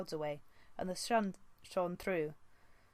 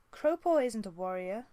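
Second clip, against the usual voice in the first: higher, louder quick comeback; flashing back; 4 semitones higher, 6 dB louder than usual. Acted. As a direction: throw it back at him defiantly. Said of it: "Squirrelpaw flashed back at him".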